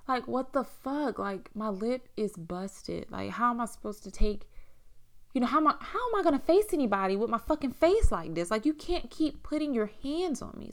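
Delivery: high, loud and upset. Retold or imitated. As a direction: cry out in outrage. Reliving the assault, upset.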